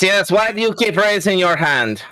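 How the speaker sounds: normal talking voice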